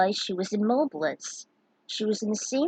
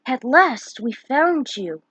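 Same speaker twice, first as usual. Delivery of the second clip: wolf voice; 4 semitones higher, 5 dB louder, slower than usual. Acted. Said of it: "the wolf dog hybrid spoke".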